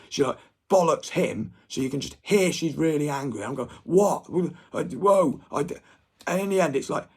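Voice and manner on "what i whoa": loud, high startled what; recalling his shock at the mum's scolding, loud and startled; shocked outburst. Retold or imitated. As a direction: blurt it out in disbelief. Retelling his shock at mum.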